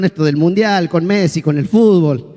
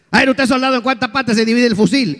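drill sergeant; 6 semitones higher than usual. Acted. Sergeant quizzing a soldier.

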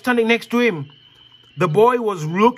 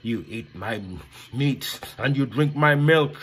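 low cow voice; 8 semitones lower than usual. Acted. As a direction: moo it out low and lazy.

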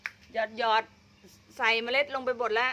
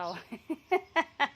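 higher-pitched chuckle in bursts; laughing; 5 semitones higher than usual. Real, not acted. Gardener jokes about her own bad luck, laughing. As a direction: break into a string of short laughs.

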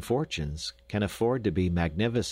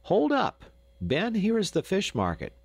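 hailing call; 11 semitones higher than usual. A narrator's reading. Lambert calls out to Ben to stop at the market. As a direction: hail him from a distance. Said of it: "Lambert hailed him".

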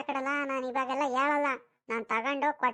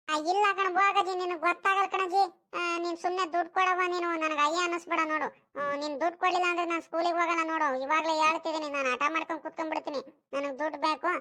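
put-on pleading child, pitch raised, pushing hard; whiny tantrum; 4 semitones higher than usual. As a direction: nag grandma like a stubborn kid. Boy throws tantrum for money.

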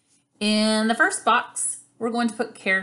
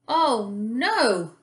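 drawn-out, swooping oh no; mild gasped dismay; 4 semitones higher than usual. Acted. Octopus sees the pearl swept away, mildly dismayed. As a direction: gasp it lightly, in mock dismay. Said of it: "gasped Octopus".

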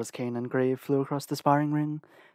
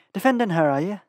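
loud, mocking jab at a rival; taunting; 5 semitones higher, 6 dB louder than usual. A narrator's reading. Varen goading Selena's protector in the ring, taunting. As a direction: sneer the question to provoke him. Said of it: "Varen taunted".

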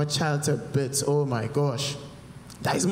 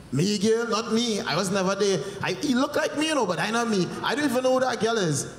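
defensive; 4 semitones higher than usual. Retold or imitated. Defensive denial to Keisha.

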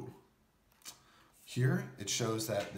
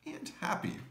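happy voice; 11 semitones higher, 4 dB quieter than usual. Acted. Naming emotions.

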